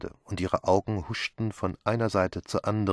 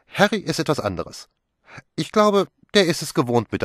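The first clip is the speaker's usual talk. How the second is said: much higher, louder mocking remark; amused scorn; 9 semitones higher, 8 dB louder than usual. A narrator's reading. Pilar laughs, mocking about Harry. (spöttisch, hoch und laut)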